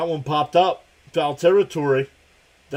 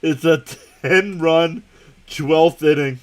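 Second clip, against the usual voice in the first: louder announcer emphasis; loud call; 2 semitones higher, 8 dB louder, slower than usual. Real, not acted. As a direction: announce the ten-run inning loudly. Announcing a big inning.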